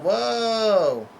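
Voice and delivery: high, loud mock shout of amazement; yelled whoa. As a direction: belt out a startled whoa. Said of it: "Usopp yells like".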